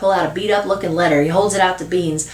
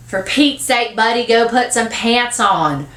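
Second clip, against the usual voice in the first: higher start, slowing into weary order; exasperated; 4 semitones higher, slower than usual. Acted. Aunt telling little boy to dress, exasperated. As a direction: order him about, fed up. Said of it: "with an exasperated voice".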